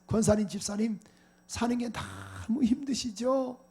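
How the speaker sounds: slow, soft caring greeting; sympathetic greeting. Shown as a demonstration. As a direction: greet your neighbor gently. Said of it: "그렇게 한번 인사 한번 해보세요". (옆 사람에게 다정하게 건네는 인사)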